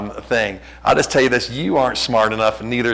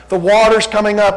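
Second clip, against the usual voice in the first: high, loud panicked cry for help; panicked caller; 8 semitones higher, 5 dB louder than usual. Retold or imitated. Pastor imitating a drowning caller in an ad, panicked. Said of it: "they played the audio".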